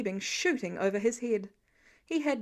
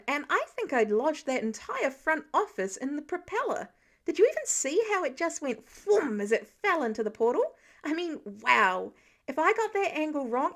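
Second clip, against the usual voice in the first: put-on louder, breathless eager kid voice; excited teen rambling; 2 semitones higher, 3 dB louder than usual. Kid reporting his battle feats to Mister Stark, excited. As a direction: gush nonstop to your hero.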